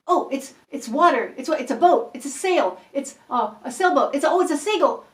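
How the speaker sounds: lively encouraging guesser; excited guessing. Shown as a demonstration. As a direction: keep the energy up for the drawer. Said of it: "you go".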